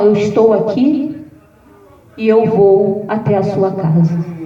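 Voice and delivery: God promising to come to the house; calm reassurance. Retold or imitated. (promessa calma, grave e lenta)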